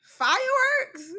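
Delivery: high, drawn-out disbelief; incredulous question. Acted. Reactor learning the gift is fireworks, high incredulous question.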